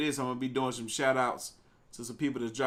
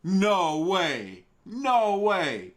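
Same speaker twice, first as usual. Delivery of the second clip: shocked yell; 5 semitones higher, 4 dB louder, much slower than usual. Real, not acted. Shocked reaction to clip.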